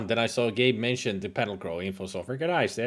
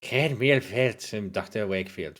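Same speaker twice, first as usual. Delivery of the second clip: put-on Scottish accent; 4 semitones lower than usual. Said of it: "I'm gonna keep them Scottish".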